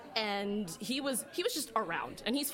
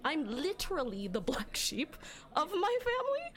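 wry whisper; 7 semitones higher than usual. Real, not acted.

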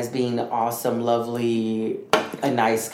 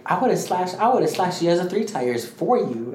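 higher-pitched imitation of an indignant friend offering help; retold offer in a raised pitch; eager friend, imitated; 5 semitones higher than usual.

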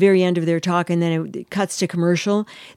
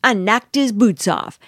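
mildly emphatic, measured quote; emphatic retelling; 3 semitones higher, slower than usual. Retold or imitated. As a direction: imitate her slow, deliberate announcement. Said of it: "emphatically says".

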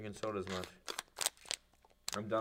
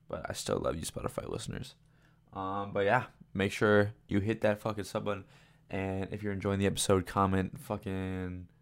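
ad read; 11 dB louder than usual. Acted. Inserted sponsor and subscribe plug.

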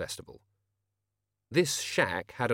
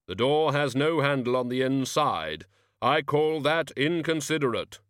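Death's voice; 4 semitones higher, 4 dB louder than usual. Acted. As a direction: drag each word out like a tomb.

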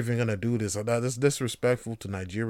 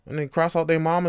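usual speaking voice

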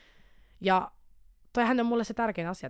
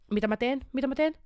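sävel nousee toistolla kysyväksi; esitä neuvoton, kiihtyvä itselle puhuminen; lievä hätäännys; 6 semitones higher than usual. Acted. Esittää omaa hätäänsä tehtävien edessä. (lievästi esitetty hätäännys)

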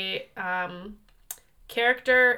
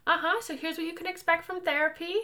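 soft, raised counsellor voice; therapy voice; 7 semitones higher, 4 dB quieter than usual. Shown as a demonstration. Host shows off her counselling voice to co-host, therapy voice. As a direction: speak softly like a soothing therapist. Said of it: "That's my therapy voice".

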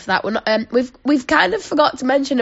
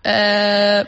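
very slow, halting beginner French; hesitant tourist ordering in clumsy French, long gaps; mimicking awkward French; much slower than usual. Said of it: "she was like".

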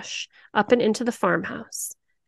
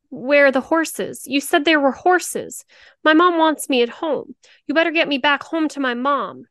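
put-on higher, louder, a scared little boy near tears; tearful child; 5 semitones higher, 4 dB louder than usual. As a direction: plead like a frightened kid about to cry. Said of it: "lip beginning to tremble, tears welling".

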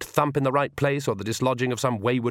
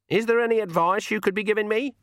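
put-on old woman voice; 11 semitones higher than usual. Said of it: "said Granny".

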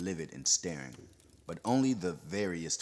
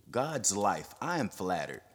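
cool amusement; 2 semitones higher than usual. Acted. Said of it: "cool amusement in his tone".

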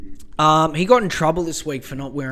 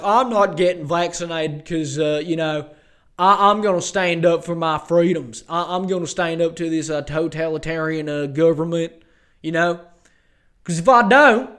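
mock anti-vaxxer; 4 dB louder than usual. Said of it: "they're just like".

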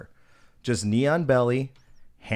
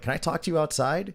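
lightly raised, cheesy politeness; retold friendly request; 6 semitones higher than usual. Peacemaker inviting an upset guest outside, retold friendly request. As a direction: ask nicely, as friendly as possible. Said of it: "fucking as friendly as possible to him".

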